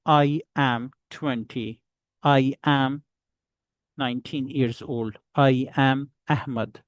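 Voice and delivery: I AM as two separate, clear words; uncontracted I am. Shown as a demonstration. Teacher helps those facing difficulty, separated I AM. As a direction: separate I from AM with care. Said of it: "so you have to speak".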